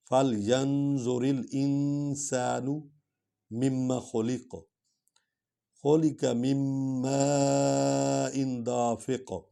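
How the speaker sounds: melodic tilawat with drawn vowels; Quran recitation. Acted. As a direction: recite the verses with measured tajweed.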